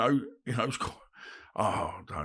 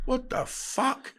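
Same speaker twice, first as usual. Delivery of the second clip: mate's shock; 10 semitones higher, much slower than usual. Retold or imitated. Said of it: "my mate's going".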